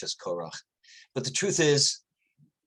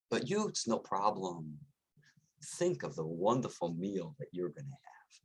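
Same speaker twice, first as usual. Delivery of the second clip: sly coyote; 3 semitones higher than usual. Acted. Coyote persuades the lion.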